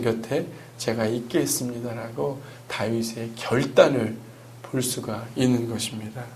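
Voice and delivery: earnest sermon voice swelling and falling; sermon preaching. Acted. Pastor preaching Psalm 23 to the congregation, earnest sermon delivery.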